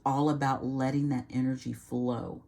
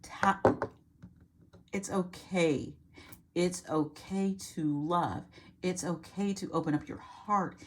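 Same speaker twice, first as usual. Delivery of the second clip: gentle reassurance; 3 dB quieter than usual. Pretend. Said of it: "She is saying".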